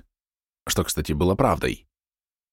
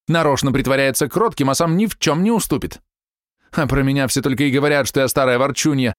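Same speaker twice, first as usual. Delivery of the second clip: a higher, indignant society wife pouring out grievances; aggrieved wife ranting; 6 semitones higher than usual. A narrator's reading. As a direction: nag on and on about the husband. Zilla's long aggrieved rant.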